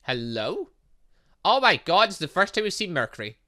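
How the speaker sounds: ordinary talk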